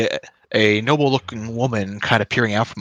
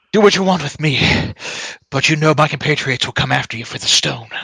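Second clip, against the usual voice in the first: raised, higher defiant cry that settles toward the end; cries out; 4 semitones higher than usual. Acted. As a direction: spit it at his captors, then calm a little. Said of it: "he cries out".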